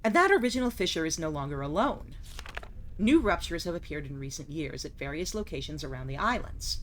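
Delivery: measured, solemn journal reading; journal narration. Acted. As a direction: read it like a diary entry. Reads game journal aloud.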